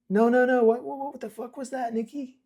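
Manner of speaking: high, loud, tumbling protest; freaked out. Acted. Bear demanding of Nikki what just happened, rattled and high. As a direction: spill the words out, rattled.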